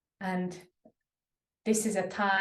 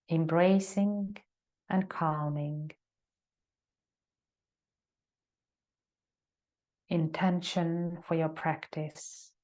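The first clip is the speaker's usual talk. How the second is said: calm, unhurried yoga teacher guiding reflection; measured meditation guide with long silences; guided meditation. Acted. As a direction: settle them into stillness, leaving long pauses between phrases. Leads a meditation.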